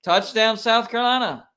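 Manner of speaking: touchdown call. Real, not acted. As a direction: call the score as it happens. Live touchdown call while watching.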